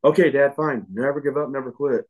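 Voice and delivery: lightly voiced exasperated daughter; mimicking daughter. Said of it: "She's like".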